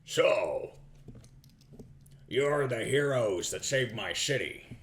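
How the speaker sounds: slow, lightly deepened noble; a hint of a proud old lizard official; dragonborn lord voice.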